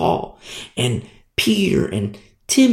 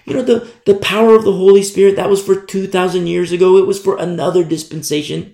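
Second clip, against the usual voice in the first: mocking skeptics; 4 semitones higher, 4 dB louder, faster than usual. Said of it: "And people say".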